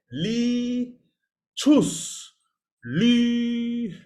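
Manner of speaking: Li, then high rounded choose, then Li with lips kept rounded; three-step demo. Shown as a demonstration. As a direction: model it for students. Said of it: "So switch it to L E E".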